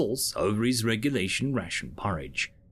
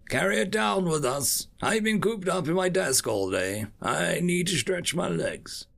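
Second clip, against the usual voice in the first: raised, brisk boss voice; higher-pitched commanding bird officer; 7 semitones higher than usual. Acted. Boss orders secretary.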